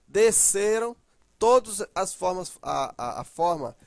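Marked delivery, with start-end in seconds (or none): 0.1-1.0 "desceram" with CE stressed and held; des-CE-ram, stretched middle; stress on ending. Shown as a demonstration. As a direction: lean on the middle syllable of "desceram". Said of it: "está fora do radical".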